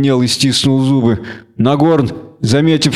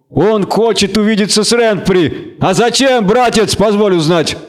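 high-pitched, incredulous jeering; taunting question from a tavern tough; mocking gang leader; 8 semitones higher than usual. A narrator's reading. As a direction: make fun of the request for your mates.

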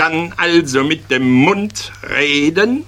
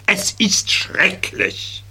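exasperated sigh; 5 semitones higher, 3 dB quieter, slower than usual. Acted. Teacher scolding dreamy pupil.

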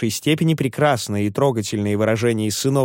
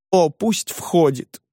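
higher, slow, carried away; rapturous exclaim; 6 semitones higher, slower than usual. A narrator's reading. Clinging landlady defying intruders, slow rapturous cry. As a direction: let them come, lost in rapture. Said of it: "самозабвенно воскликнула".

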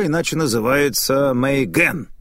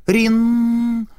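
wind chime ring imitation; 9 semitones higher than usual. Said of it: "послышался звон ветряного колокольчика".

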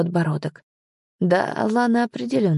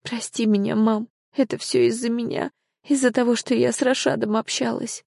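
tearful apology; 5 semitones higher than usual. Acted. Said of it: "ревела".

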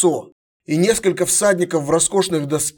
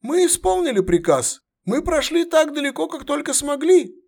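much higher, strained veteran soldier voice; gruff centurion; 12 semitones higher than usual. Acted. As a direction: bark it like a battle-worn centurion. Centurion reports.

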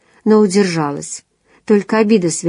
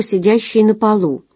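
usual speaking voice

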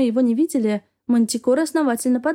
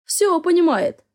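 higher, slow delighted exclamation; 7 semitones higher, slower than usual. Acted. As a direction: marvel at the kitten, slowly. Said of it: "восхитился Яр". (восхищённо, выше и медленно)

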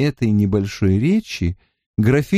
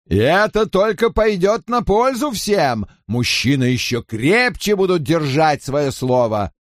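jovial nobleman; 5 semitones higher than usual. Acted. Robert continues merrily.

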